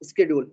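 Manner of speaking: schedule with a hard k; schedule opening on a crisp "sk"; contrasting pronunciation. Shown as a demonstration. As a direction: say schedule as "sked-yool". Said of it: "it's not schedule. It's a schedule".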